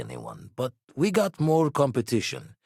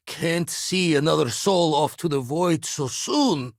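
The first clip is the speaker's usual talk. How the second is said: distressed; 5 semitones higher, 3 dB louder than usual. Acted. Dreads losing another comrade.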